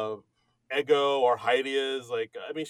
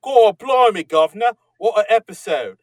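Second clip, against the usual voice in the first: hammed-up British accent, opening with a loud shout; a mock cockney British gent, loud and overblown; bad British accent; 7 semitones higher, 9 dB louder than usual. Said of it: "in his best British accent".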